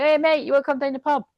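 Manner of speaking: high-pitched attempt at an English pub mate; accidental English accent. Someone inviting a mate to the pub, botched English accent. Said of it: "Some type of English".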